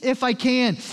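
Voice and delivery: high, stammering mock indignation; imitating someone put out, pitched high; irritated. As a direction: sputter in irritated disbelief. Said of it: "seems to irritate him".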